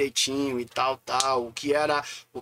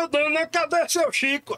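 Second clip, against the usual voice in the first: high-pitched call at someone's door; pitched-up doorstep holler, playfully retold; 12 semitones higher, 4 dB louder than usual. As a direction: re-enact hailing the lady of the house.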